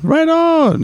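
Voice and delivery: bro voice. Retold or imitated. Imitating dudes in chat.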